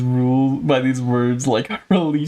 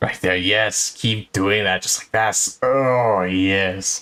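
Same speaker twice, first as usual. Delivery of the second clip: mock sensual voice; 4 semitones lower, slower than usual. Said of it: "It's my sensual voice".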